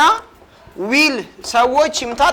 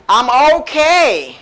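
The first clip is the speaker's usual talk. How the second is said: very slow, each word drawn out; slow model answer; much slower than usual. Shown as a demonstration. Teacher modelling the reply for students, very slowly. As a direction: spell out I'm okay slowly for learners. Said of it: "You can say".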